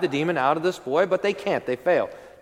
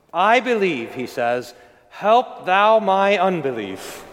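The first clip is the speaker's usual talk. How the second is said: louder, slow, heartfelt plea; father cries out his faith to Jesus, louder and slow; crying out; 3 dB louder, slower than usual. Acted. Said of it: "the father cries out".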